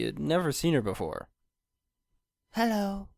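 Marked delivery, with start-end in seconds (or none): 2.5-3.1 gentle. A narrator's reading. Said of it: "a gentle sounding voice".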